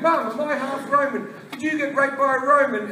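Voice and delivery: a hint of a plaintive son; Brian. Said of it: "it is fucking Brian going".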